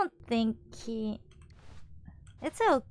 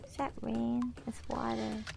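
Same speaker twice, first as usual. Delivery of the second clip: hushed whisper; 6 dB quieter than usual. Real, not acted. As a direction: breathe the words, puzzled. Wondering about water dripping in.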